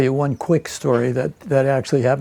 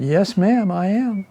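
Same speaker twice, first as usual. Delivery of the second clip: higher-pitched, put-on Southern accent; fake Southern accent; 5 semitones higher than usual. Volunteer answering an old Southern lady, fake Southern accent. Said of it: "in my best fake Southern accent".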